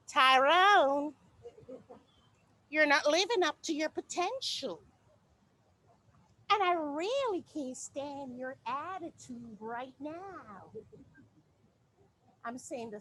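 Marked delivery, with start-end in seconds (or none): 0.1-10.7 measured, polite and mild; Caucasian tone. Acted. Woman scolding Tyrone in a polite Caucasian tone, measured. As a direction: correct Tyrone calmly and properly. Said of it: "But in my Caucasian tone, I'll say".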